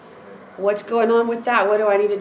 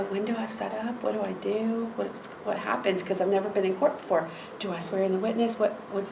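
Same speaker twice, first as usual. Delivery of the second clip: much softer, under the voice; retold nervous aside in court; hushed anxious questions; 9 dB quieter than usual. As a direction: ask quietly so others won't hear.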